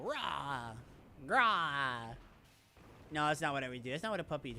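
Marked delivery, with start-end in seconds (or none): 0.0-2.2 mock roar. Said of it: "can I get power and go".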